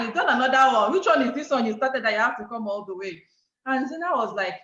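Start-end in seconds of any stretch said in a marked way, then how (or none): 0.0-3.2 loud mock ribbing through laughter; laughing teasing. Couple making fun of friend's latest hustle, laughing. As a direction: poke fun, amused and loud. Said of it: "So we started laughing at her".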